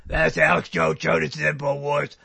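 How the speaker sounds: rough attempt at a raspy show opener; lightly voiced throaty radio host; Alex Jones. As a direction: try out a vibrating-throat impersonation. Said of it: "Teach me how to do Alex Jones".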